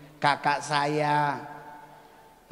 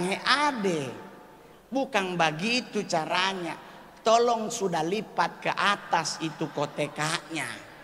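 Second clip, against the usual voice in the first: mock Papuan shout. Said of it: "Si bapak teriak dari belakang".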